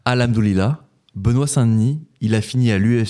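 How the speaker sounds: put-on Alhamdoulilah said with a light Arabic accent; reading a tweet aloud, a light Arabic accent on Alhamdoulilah. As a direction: quote Alhamdoulilah in a mock Arabic pronunciation. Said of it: "pardonnez mon accent".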